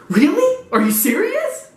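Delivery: high squeaky hopeful questions; excited little fan. Acted. Fan hearing of a new target, squeaky mock excitement. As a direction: pipe up high in mock wonder. Acts the fan's excited reply.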